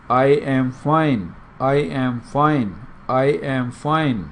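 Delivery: very slow, each word drawn out; slow practice drill. Shown as a demonstration. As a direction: spell it out slowly for learners. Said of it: "پہلے آپ یہی practice کریں گے". (آہستہ آہستہ مشق)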